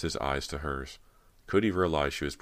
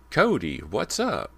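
high, loud, drawn-out call; 6 semitones higher, 6 dB louder, slower than usual. A narrator's reading. Actor hailing Cody to make her turn, calling out. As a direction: call a friendly greeting across the yard.

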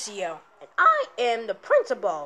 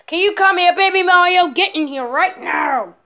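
shouting for him; 5 semitones higher, 6 dB louder than usual. Acted. Dad shouting for son.

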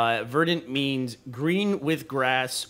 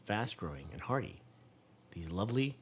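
measured, lower read-aloud voice; 3 semitones lower, 4 dB quieter than usual. A narrator's reading. Parent reading game text to child, measured narration. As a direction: read it out softly and deliberately.

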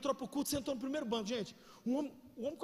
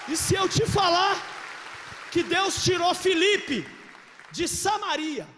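loud, slow and higher; booming preacher build; 7 semitones higher, 12 dB louder, much slower than usual. Shown as a demonstration. Preacher raising the stakes for the congregation, loud and slow. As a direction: boom it out slowly to the crowd. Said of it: "builds the same phrase twice".

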